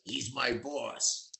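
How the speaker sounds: slow, quiet, a hint of a gruff jukebox operator; lightly voiced tough jukebox guy. George tells a singer who the boss is, lightly voiced gruff operator. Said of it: "George talked like a jukebox operator".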